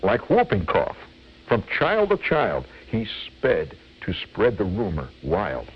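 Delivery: measured, rhythmic verse recital; comic poem reading. Acted. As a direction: relish each rhyme of a mock cautionary tale.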